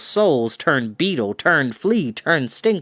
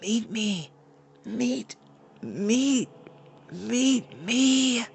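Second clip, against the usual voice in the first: soft, high, far-off call; like an echo fading from the hills; distant echo; 9 semitones higher, 6 dB quieter, much slower than usual. A narrator's reading. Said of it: "an echo of his yip come back from the hills".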